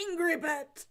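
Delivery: put-on drunken delight. Drunk dwarf celebrating.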